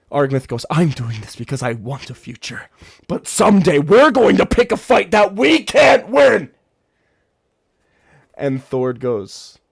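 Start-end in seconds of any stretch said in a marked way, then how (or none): 0.7-6.5 builds from firm to a high loud shout; rising shout. Acted. Argmith warning Thord before the fight, building to a shout. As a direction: warn him at the top of his voice.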